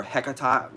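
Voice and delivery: Hecata as HEK-uh-tah, ending in an open ah; alternative pronunciation. Shown as a demonstration. Witch trying another form of the name, alternative pronunciation. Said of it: "The way her name is either pronounced".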